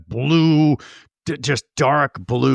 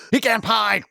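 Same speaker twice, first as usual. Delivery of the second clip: high-pitched mock dessert announcement; mimicked relative; 8 semitones higher than usual. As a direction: announce the dish in a high silly voice.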